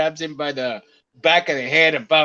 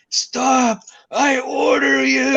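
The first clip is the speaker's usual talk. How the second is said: loud, high, slow mock order; hammed-up little tyrant bellowing stop; Rick Moranis command; 9 semitones higher, 4 dB louder, much slower than usual. Retelling the Spaceballs scene, mock commanding. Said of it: "Rick Moranis is going".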